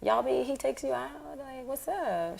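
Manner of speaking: pry sweetly like a fake friend; fake-friendly gossip. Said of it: "I was just like".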